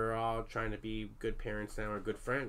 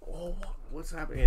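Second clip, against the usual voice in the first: imitated sobbing distress; 6 semitones higher than usual. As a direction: plead in bewilderment, pitched up. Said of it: "Everyone's sobbing".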